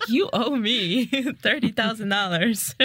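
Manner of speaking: laughing through a put-on tough-guy threat; mock mafia collector. Mafia collecting student loans from a friend, laughing mock threat. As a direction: ham up a loan shark, cracking up.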